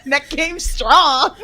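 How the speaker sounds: slow, laughing boast; chuckling through the words. Real, not acted. Host cracking up at the wrestlers' neck game, laughing.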